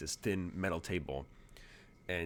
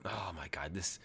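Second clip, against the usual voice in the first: whispered curse under his breath; 6 dB quieter than usual. Acted. Agent curses the city to himself in a whisper. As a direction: hiss it to yourself, unvoiced.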